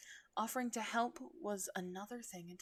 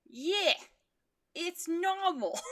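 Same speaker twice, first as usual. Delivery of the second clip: loud, higher insisting shout, slow; defensive; 10 semitones higher, 12 dB louder, slower than usual. A narrator's reading. Jaguar defending shedding to Mel, loud and high. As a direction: insist hard it's fine. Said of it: "Jaguar defended".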